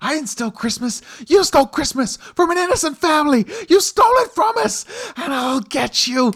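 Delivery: shrill, very high, very loud yelling. Voicing the Grinch shouting through a closed door: Grinch shouting. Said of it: "you hear him shouting from the other side of the door".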